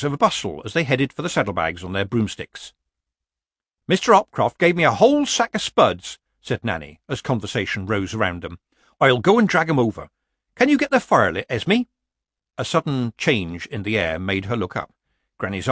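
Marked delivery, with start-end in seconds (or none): 3.9-6.2 put-on cheery old witch, higher and louder; lightly voiced Nanny. Nanny offers spuds as conversation rises, cheery. 9.0-11.8 put-on cheery old witch, higher and louder; lightly voiced Nanny. Nanny offers spuds as conversation rises, cheery.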